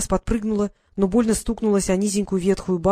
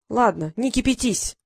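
slow, soothing backdown; calm her down slowly; conciliatory; 3 semitones higher than usual. Acted. Brother suddenly makes peace, slow conciliatory tone. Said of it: "примирительным тоном".

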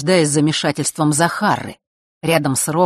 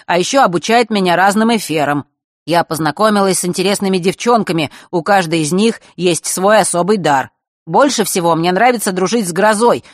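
put-on higher, brighter letter-reading girl; girl's voice reading letter; 4 semitones higher, 5 dB louder than usual. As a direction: read it as the girl who wrote it. Читает письмо голосом Василисы. (голос девочки, читающей письмо)

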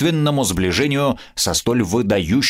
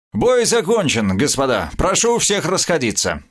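brisk bark; 6 semitones higher than usual. Acted. The sheriff orders the crowd to disperse, barking briskly. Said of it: "бодро гаркнул шериф".

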